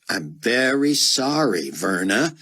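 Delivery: slow, sarcastic apology. Acted. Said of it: "Buck said with sarcasm".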